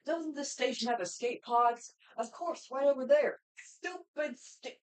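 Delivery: lightly voiced alien invader, sneering; Zim impression. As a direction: mutter like a cartoon alien villain. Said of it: "my Zim impression".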